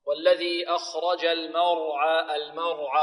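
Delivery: slow "المرعى" with thick r between thin m and ayn; heavy between light. Shown as a demonstration. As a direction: recite "المرعى" drawn out, only the ra heavy. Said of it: "وهنا مفخم بين مرققين".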